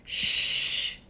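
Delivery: whispered hush; shushing. Acted. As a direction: hush him while sneaking. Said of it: "Sophie said as they tiptoed".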